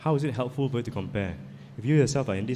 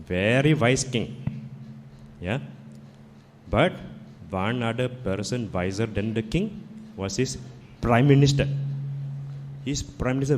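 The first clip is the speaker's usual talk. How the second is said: put-on a light Indian accent telling a fable; lightly voiced Indian storyteller accent; gentle Indian accent, once upon a time. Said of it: "I can tell in an Indian accent".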